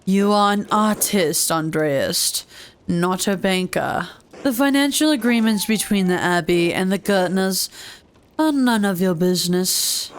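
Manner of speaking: put-on measured, accented priest voice; lightly voiced stern priest. Priest rebuffs Andreas over the Gertners, lightly voiced and stern. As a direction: lightly put on a formal Father. Voices Father Gano refusing help.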